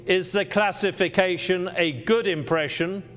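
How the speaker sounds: good impression with the word good leaned on; stress on good. Shown as a demonstration. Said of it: "or just an impression?".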